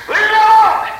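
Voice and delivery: high, mock-exasperated cry; retold insistence. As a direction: cry it out high to be left alone. Refusing his worried son, retold.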